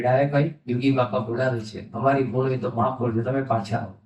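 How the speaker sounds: low, softening humble request; quietly apologetic, coaxing him back; humble entreaty. Retold or imitated. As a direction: plead gently, as with folded hands. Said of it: "ડાયાભાઈને હાથ જોડ્યો કે".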